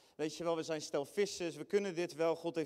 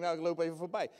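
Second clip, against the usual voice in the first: ordinary delivery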